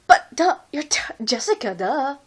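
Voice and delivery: mild mock ditzy whine. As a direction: sneer it like the dumb blonde. Mocking the ditzy blonde woman.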